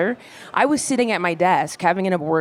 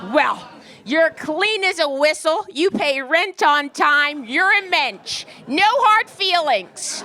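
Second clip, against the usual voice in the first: much higher, slow, syrupy landlady voice; sugary landlady; 8 semitones higher, much slower than usual. Retold or imitated. Landlady smoothing things over with her tenant, high sweet slow voice. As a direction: flatter the tenant sweetly and slowly.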